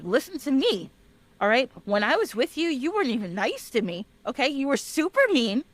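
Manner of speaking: mildly acted aggrieved complaint; lightly voiced fed-up husband; pissed-off husband. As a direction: air old grievances with mock indignation. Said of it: "the husband is now getting pissed off".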